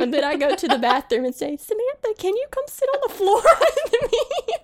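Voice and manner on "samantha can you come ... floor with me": high, whimpering plea with a laugh; scared whiny plea. Retold or imitated. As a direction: beg like a frightened friend. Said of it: "So then I get scared".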